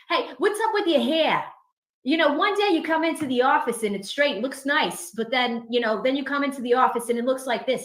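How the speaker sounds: nosy Boston office guy impersonation; Boston accent. Acted. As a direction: play a Boston colleague quizzing her. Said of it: "mix that with the Boston accent".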